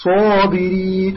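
صابرين slowly with a dark rounded "Saw"; full-mouthed recitation of صابرين; heavy Sad. Shown as a demonstration. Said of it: "الصاد كذلك".

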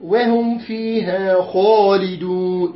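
وهم فيها خالدون drawn out slowly; slow recitation. Shown as a demonstration. Teacher reciting before correcting the reading. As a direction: stretch the words evenly. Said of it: "لا، خالدون".

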